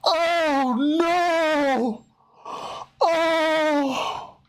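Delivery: high, wailing laugh-cry; wheezing laughter, words barely out. Real, not acted. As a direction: overcome by laughter, voice breaking up. Crying with laughter at clip.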